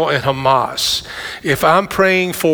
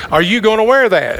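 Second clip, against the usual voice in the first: higher-pitched mock question; sounds like a question; 5 semitones higher, 3 dB louder, faster than usual. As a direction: imitate a spouse's loaded question. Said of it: "It sounds like a question".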